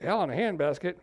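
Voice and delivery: rising puzzled echo of Hell in a handbasket; puzzled young people. Retold or imitated. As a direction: repeat Hell in a handbasket like you've never heard it. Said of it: "the young people are like".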